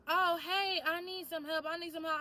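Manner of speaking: retold pleading man. Man she remembers asking her for help, mildly pleading.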